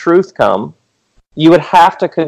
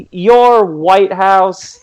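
mock prophetic jab; 5 semitones higher than usual.

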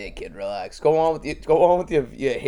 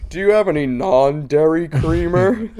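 high, loud nerdy white man; white guy voice; 4 semitones higher, 5 dB louder than usual. Acted. Comic joining the bit, high white guy voice. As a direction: pitch it up as a prissy white customer. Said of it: "every black comedian's white guy voice".

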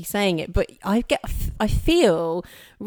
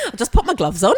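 talking through laughter; laughing; 5 semitones higher, much faster than usual. Real, not acted. Laughing while speaking.

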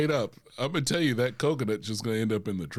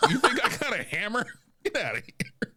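mock indignant; 8 semitones higher than usual.

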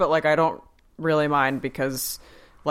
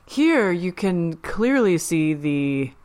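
trying to sound smart. Retold or imitated. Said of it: "he's trying to sound smart".

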